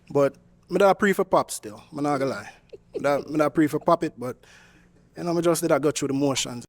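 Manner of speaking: light Jamaican accent put on to charm a woman; easy Jamaican patois lilt, played cool. Suitor on a dating show charms her in a Jamaican accent. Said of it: "now the Jamaican accent gone".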